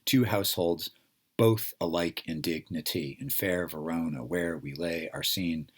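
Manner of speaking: lightly lilting heartbeat beat, stressing every second syllable; verse recital, da-DUM da-DUM; iambic rhythm. Shown as a demonstration. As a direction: recite "Two households, both alike in dignity" in iambic meter. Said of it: "rhythm that sounds like the human heartbeat".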